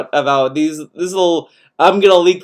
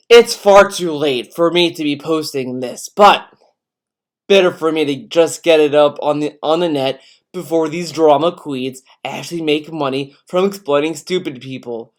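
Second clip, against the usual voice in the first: theatrical voice. Acted. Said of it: "I'll just do a theatrical voice for this".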